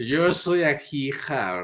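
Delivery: put-on slow, slurred drunk voice. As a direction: drag it out like a drunk. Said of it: "Me lo imagino con voz de borracho".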